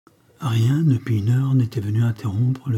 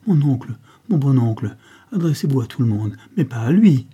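louder, higher urgent plea; urgent pleading; 3 semitones higher, 6 dB louder than usual. Acted. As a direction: cut him off, begging. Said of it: "interrompit Fernande".

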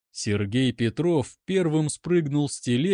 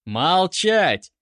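loud, higher barked command; рявкнул; 4 semitones higher, 6 dB louder than usual. A narrator's reading. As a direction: bark the order to shut him up. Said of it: "рявкнул Сергей". (резкий громкий окрик)

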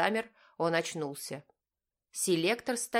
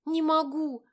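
much higher, louder panicked wail; plaintive cry; 11 semitones higher, 5 dB louder than usual. A narrator's reading. Girl panicking at the wheel, high plaintive cry. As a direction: cry out helplessly. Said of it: "жалобно воскликнула она".

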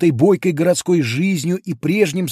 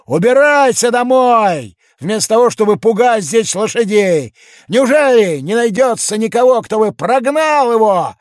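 angry shout; 7 semitones higher, 6 dB louder than usual. A narrator's reading. Hawker shouting at the giant to go home, louder. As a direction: bark it at the giant.

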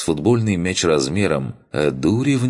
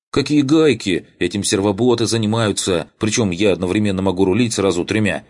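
indignant; 5 semitones higher than usual. Acted. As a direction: bristle with offended pride. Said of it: "возмущённо вскинулся".

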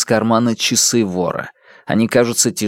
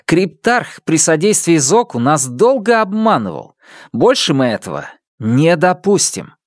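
sincere fury; 6 semitones higher than usual. Acted. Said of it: "Исидора вдруг охватывает искренняя ярость".

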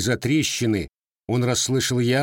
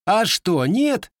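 high, louder snapping retort; sudden snarl; 11 semitones higher, 4 dB louder, slower than usual. A narrator's reading. Grandson suddenly snaps at the gunsmith, high and louder. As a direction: lash out suddenly. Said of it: "вдруг вызверился казачок".

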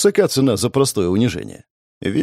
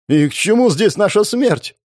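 higher, panicked cry of a frightened knight; shaky shout; 9 semitones higher than usual. A narrator's reading. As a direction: yell it, voice trembling with fear. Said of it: "закричал дрожащим голосом".

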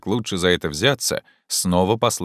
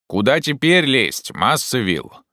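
higher-pitched call from up the tree; 6 semitones higher, slower than usual. Acted. Jupiter asks master where to climb, calling down. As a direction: call out the question to someone below.

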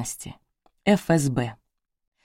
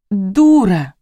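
sobbing; 4 semitones higher, 6 dB louder than usual. A narrator's reading. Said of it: "всхлипнула незнакомка".

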